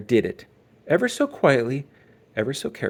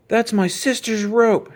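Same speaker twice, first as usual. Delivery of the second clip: slow, loud, higher demand; shout; 11 semitones higher, 7 dB louder, slower than usual. Acted. Brother confronting the bully over sister's rope, loud. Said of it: "shouted Brother".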